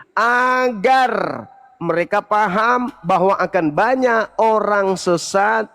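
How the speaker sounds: sudden high shout. Real, not acted. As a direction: shout the word out. Heated debate challenge.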